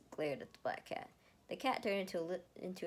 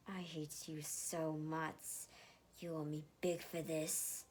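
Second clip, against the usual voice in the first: glaring; slower than usual. Acted. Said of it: "Erica glared at Lucas".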